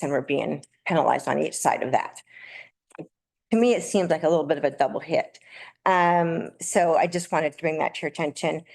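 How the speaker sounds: dry mouth, nervous speaker. Real, not acted. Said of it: "sorry, my mouth is dry 'cause I'm nervous".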